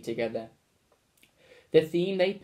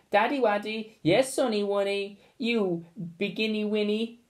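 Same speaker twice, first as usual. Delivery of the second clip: put-on high baby-talk coo; 6 semitones higher than usual. A narrator's reading. Father and son coo baby talk, high and sugary.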